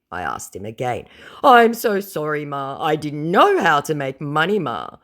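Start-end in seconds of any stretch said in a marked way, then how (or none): 1.4-5.0 high, loud whiny apology; whiny scammer. Retold or imitated. Scammer apologising to her, high and whiny. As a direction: grovel to Ma.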